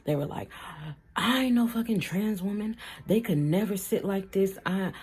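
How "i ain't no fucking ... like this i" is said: mock offended rant. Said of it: "ran all the way the fuck left".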